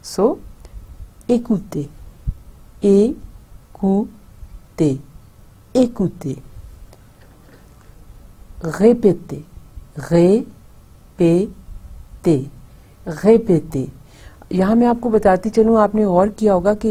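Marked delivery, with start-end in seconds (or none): 1.3-6.3 écoutez repeated for students to echo, middle one stretched; say-after-me drill. Shown as a demonstration. Teacher drilling écoutez, students repeat along. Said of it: "जब मैं बोल रही हूँ ... बोलते भी जाएं". 8.8-13.9 répétez repeated, middle one drawn out slowly; say-after-me drill. Shown as a demonstration. Teacher drilling répétez, students repeat along. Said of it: "साथ-साथ बोलते भी जाएं".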